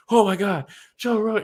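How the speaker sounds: high, gushing starstruck squeal; mock fangirl squeal. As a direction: gush like a starstruck fan. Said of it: "She's, like, freaking out".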